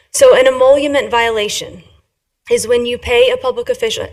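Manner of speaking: slow down a little for the interpreters. Real, not acted. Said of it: "Do you want me to slow down".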